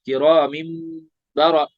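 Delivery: किरामिन ending in a held M before बरा; iqlab with ghunna. Shown as a demonstration. Teacher building the word, किरामिन with hummed M. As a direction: hum the end of किरामिन into बरा. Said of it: "वहां पे इकलाब हुआ है".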